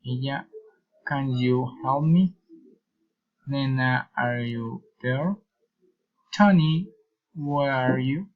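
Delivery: name first, then a question rising at the end; rising direct address. Shown as a demonstration. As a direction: call "Tony", then lift "you". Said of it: "reason, intonation".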